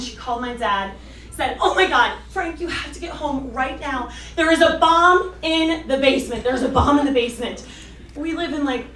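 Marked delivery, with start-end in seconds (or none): 1.6-7.6 mock panic. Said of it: "she freaked out".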